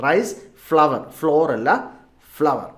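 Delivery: ഫ്ലവർ said like flower, two syllables, not ഫ്ലോർ; pronunciation drill. Shown as a demonstration. Teacher correcting rice flour for learners, saying ഫ്ലവർ like flower. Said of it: "ഒന്നുകൂടെ പറയാം".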